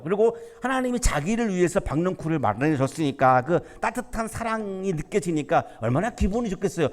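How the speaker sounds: usual speaking voice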